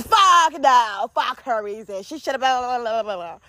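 high mock-angry outburst, fading into blah-blahs; acted anger. Anger answering the little voice, mock outburst. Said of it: "the anger in me says".

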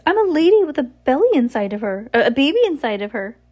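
high, loud fake lady voice; ridiculous high-pitched voice. A narrator's reading. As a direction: Olaf squeaking in disguise. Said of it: "in his disguised voice".

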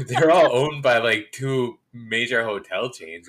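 talking through laughter; laughing. Real, not acted. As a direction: laugh while you explain. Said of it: "What are you laughing at?".

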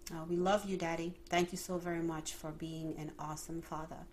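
earnest, hushed prayer to the Father. Acted. Opens the podcast with prayer.

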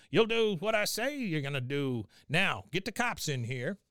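put-on high, commanding old man; Cotton. Cotton takes charge in interrogation, high firm order. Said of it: "And then Cotton".

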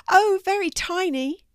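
high-pitched cartoon cat; friendly cat character. A narrator's reading. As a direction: answer brightly in a high cat voice. Narrator voices the cat Seymour.

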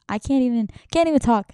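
frustrated outburst; real frustration. Real, not acted. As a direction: burst out, flustered at losing the words. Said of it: "I'm so mad".

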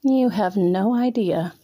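slow, teasing purr. Acted. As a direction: draw it out like a cat toying with him. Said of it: "I purred".

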